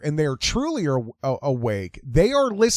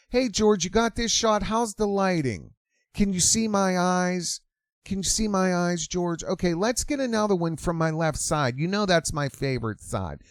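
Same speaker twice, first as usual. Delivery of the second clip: higher, preening mimicry; mock influencer voice; 3 semitones higher than usual. Influencer asking George about her photo, preening and high. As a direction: fuss over the camera angle.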